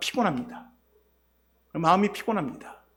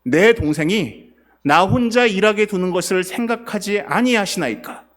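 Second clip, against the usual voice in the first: loud, aggrieved appeal, slowing at the end; loud indignant plea, slow at the close; resentful plea; 5 dB louder, slower than usual. Retold or imitated. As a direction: Martha loudly pleading with Jesus against her sister. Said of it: "뭐라고 얘기합니까?".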